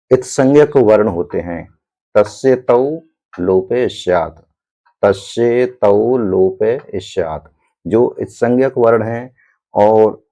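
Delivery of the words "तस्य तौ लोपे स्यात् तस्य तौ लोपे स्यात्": slow, measured chanting of the sutra; sutra recitation. Shown as a demonstration. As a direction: recite तस्य तौ लोपे स्यात् slowly, word by word. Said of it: "reciting the sutra".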